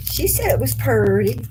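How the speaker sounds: high, amused retelling through a laugh; tickled high-pitched retelling. Real, not acted. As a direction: let the giggle color the words.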